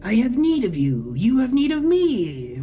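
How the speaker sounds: slow, whirring robotic drone; whining machine voice. A narrator's reading. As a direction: speak like a glitching vending machine. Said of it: "that whirring, whining voice".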